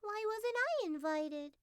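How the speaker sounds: high, slow little mink voice; a small hurt animal asking to be let in. Acted. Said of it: "asked the mink".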